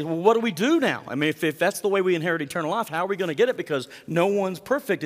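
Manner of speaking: a worried man asking what now. Retold or imitated. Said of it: "the man might say".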